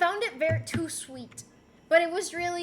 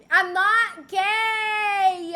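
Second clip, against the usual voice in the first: slow, drawn-out mock protest; mock indignant; 4 semitones higher, 9 dB louder, much slower than usual. Streamer jokingly denies it to chat, slow drawn-out mock protest. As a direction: stretch every word in fake outrage.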